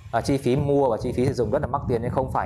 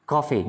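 "coffee" with COF raised, fee falling; COF-fee, front-stressed; stress on first syllable; 2 semitones higher than usual. Shown as a demonstration. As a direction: lift the start of "coffee". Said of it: "Nhớ đầu lên".

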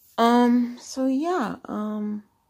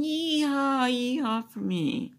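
mock cheer; 5 semitones higher, slower than usual. Vlogger cheering about going live, mock excited yeehaw. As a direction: whoop it up for yourself, half-joking.

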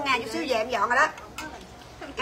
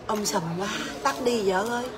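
lower, softer imitation of an annoyed husband; husband's complaint; 4 semitones lower, 7 dB quieter than usual. Wife imitating her husband asking her to stop the livestream, lower and softer. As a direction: grumble it like the husband telling his wife to switch off. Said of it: "là chồng tôi nói".

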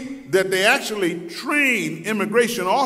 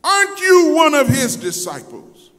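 retold sudden accusation, pitched up at the end; blurted challenge; 4 semitones higher than usual. Lady spotting Peter as a disciple, blurted challenge. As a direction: blurt it out as an imitated bystander. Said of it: "that lady blurted it out".

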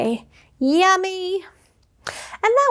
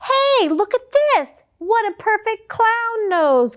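bear voice; 6 semitones higher than usual. Acted. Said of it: "cried the bear".

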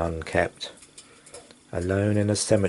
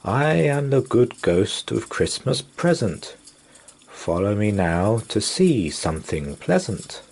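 a hint of a hearty jolly ghost; jolly spirit; 2 semitones higher than usual. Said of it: "a jolly spirit who said".

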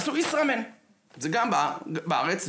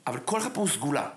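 hushed whisper, voice dropped away; faster than usual. Acted. Whispering to the crowd, hushed secret. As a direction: lean in and whisper the point to the audience. Whispered point in sermon-like talk.

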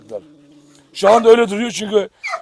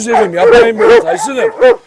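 much higher, loud plea; high pleading; 6 dB louder than usual. Real, not acted. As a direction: plead with the dogs to stop. Pleading with dogs.

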